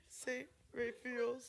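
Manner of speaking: Raphael's said slowly as "RAY-feels"; mispronounced saint's name. Real, not acted. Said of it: "pronouncing the name of the school wrong".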